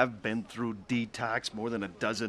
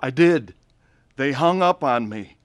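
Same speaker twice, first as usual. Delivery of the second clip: put-on drunk pleading; 5 semitones higher, 6 dB louder than usual. Drunk man begging his sister.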